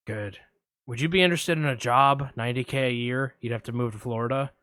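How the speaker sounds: lurk low like a shady caller; a hint of Buffalo Bill, low; creepy caller. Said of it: "I'm gonna play both parts".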